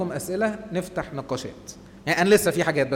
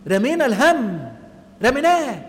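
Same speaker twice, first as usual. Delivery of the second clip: higher, louder, savouring it; joyful lift; 5 semitones higher, 5 dB louder than usual. Real, not acted. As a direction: lift the voice in relief. Joy of leaving confession. (فرحة وارتياح بصوت أعلى)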